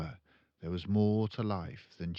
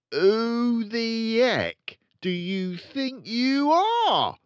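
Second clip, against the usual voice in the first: loud, high, slow roaring father; furious shout; 11 dB louder, much slower than usual. Acted. Father shouting at his daughter in rage. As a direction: bellow it at her. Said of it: "he shouted".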